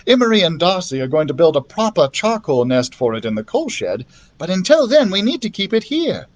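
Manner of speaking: lightly voiced girl. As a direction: reassure him as the sensible girl.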